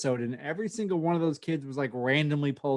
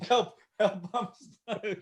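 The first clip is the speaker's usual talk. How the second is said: small, high trapped voice; high-pitched fake cry for help; mock plea for help; 6 semitones higher, much slower than usual. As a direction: pretend to call from inside a costume. Plays person trapped in costume.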